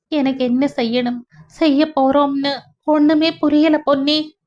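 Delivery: understated bewildered despair; helpless. Acted. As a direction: confide helplessly in a friend, voice lifted. Widow confides she is lost.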